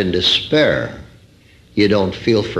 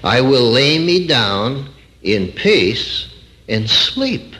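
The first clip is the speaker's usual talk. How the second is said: calm right version; 2 semitones higher, slower than usual. Shown as a demonstration.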